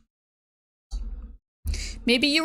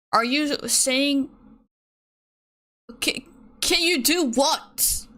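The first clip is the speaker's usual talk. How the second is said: incredulous; 3 semitones higher, slower than usual. Retold or imitated. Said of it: "Okay, I'm getting pissed again".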